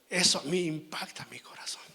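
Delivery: a moved, hushed whisper. Real, not acted. Preacher telling the congregation how it touches him, whispered. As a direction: breathe it out as a confession.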